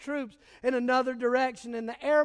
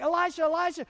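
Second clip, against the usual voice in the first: mock panic; 4 semitones higher, faster than usual. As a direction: act out a servant's hammed-up panic. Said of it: "He goes running back in in panic".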